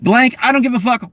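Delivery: heated, pressing anger that drops off at the end; real anger. Real, not acted. Streamer telling chat they're angry, heated. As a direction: let the real anger push through. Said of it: "Yes, I'm angry".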